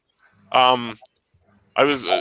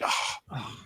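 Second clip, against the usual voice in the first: soft, voiceless "oh" of dismay; retold exasperated sigh; deflated sigh; 12 dB quieter than usual. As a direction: let the air out, defeated. Dejected reaction to customer service news.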